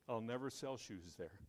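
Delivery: mildly dejected, sinking back down; mock dejected. First salesman giving up on the island, mildly dejected. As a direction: give up with a touch of mock gloom. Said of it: "was somewhat depressed".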